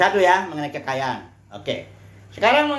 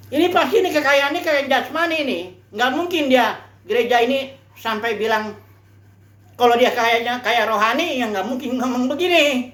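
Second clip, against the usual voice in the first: higher, scheming inner voice; devil's reasoning; 4 semitones higher than usual. Retold or imitated. Preacher voicing the devil's scheming reasoning in a higher voice. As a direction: talk yourself into the lie.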